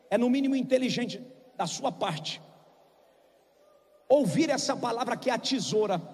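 soft, low, earnest sermon voice; intimate preaching. Acted. Pastor preaching softly to the congregation, intimate. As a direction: draw them close quietly.

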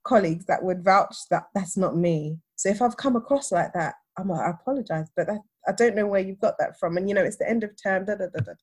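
retold calm reasoning in an even voice; measured, composed self-defence. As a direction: explain it evenly, keeping composed. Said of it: "very calmly".

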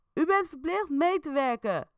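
an officer demanding cooperation; firm police order. A narrator's reading. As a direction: insist from outside. Agent calls in.

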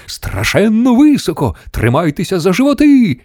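high, excited call; crying out. A narrator's reading. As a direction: call out a warning to the passengers. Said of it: "крикнув містер Вонка".

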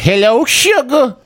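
high, slow, sugary greeting; sweet phone voice. Pretend. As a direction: coo it down the phone like a charmer. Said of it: "And I'd be like".

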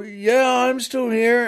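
high-pitched call from a distance; calling back. Acted. Stranger answering the husband through the rain, calling back. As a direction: answer so it carries.

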